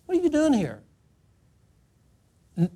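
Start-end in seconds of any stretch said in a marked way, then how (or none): 0.1-0.8 voice of God. Acted. God questions Elijah in the cave.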